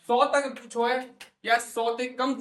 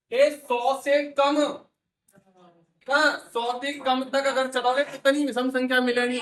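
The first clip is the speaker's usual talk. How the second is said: louder and higher, slowing on ये सौ से कम; 4 semitones higher, 6 dB louder than usual. Shown as a demonstration. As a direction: lay out each word for the class. Teacher drills pupils slowly and loudly.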